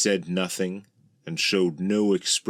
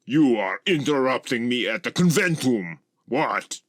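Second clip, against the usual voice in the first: high, annoyed outburst; irate dragon; 6 semitones higher, 4 dB louder than usual. A narrator's reading. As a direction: berate someone for interrupting. Gorlix rages through his puppet.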